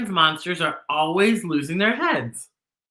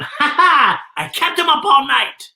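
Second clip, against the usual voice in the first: gloating laugh; 8 semitones higher, 3 dB louder than usual. Acted. Posy gloats under the table.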